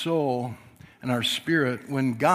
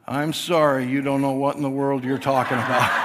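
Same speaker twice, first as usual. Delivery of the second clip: put-on child's apology quoted. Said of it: "Farah walks over to Alita and says".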